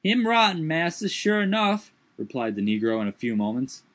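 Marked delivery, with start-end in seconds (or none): 0.0-1.9 high, dialect servant voice raised in alarm; high put-on dialect voice, startled; Jupiter's voice. A narrator's reading. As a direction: lift the voice high and protest.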